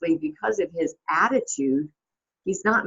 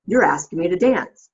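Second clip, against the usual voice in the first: higher, louder mock indignation; giving attitude; 7 semitones higher, 5 dB louder than usual. Client answering his agent's plea, imitated attitude. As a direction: throw it back with mock attitude. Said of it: "he gives him attitude".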